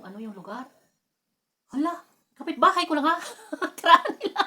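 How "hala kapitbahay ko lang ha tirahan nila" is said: loud, high "Hala!" of discovery; surprised exclamation. Retold or imitated. Realising her cousins lived next door, loud surprise. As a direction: relive the shock of recognising the street.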